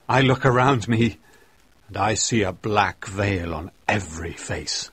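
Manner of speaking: put-on old minister's last solemn challenge; dying old reverend. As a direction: rise from the deathbed and confront them. Dying old reverend's final speech.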